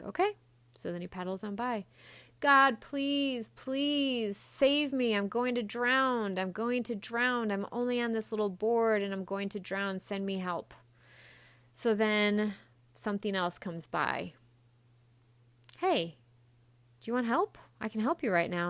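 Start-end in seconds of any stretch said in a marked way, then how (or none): 0.0-0.4 high surprised okay. Retold or imitated. 2.4-10.7 high, loud, slowed plea to God; a drowning man begging loudly; desperate loud plea. Acted. Louder desperate prayer. 15.8-18.7 calling out offer. Retold or imitated. Rescuer calling out.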